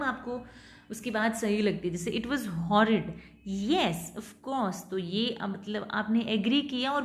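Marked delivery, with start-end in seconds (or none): 2.1-4.8 slow, rising then falling with keen agreement; enthusiastic rise-fall. Shown as a demonstration. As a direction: agree eagerly, tune up then down. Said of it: "rising, falling होती है". (जोश भरी rise-fall tone)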